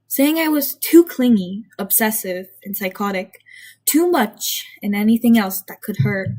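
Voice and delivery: measured first-person storytelling; story narration. A narrator's reading. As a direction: read it aloud like a confessional tale. Reads own story aloud.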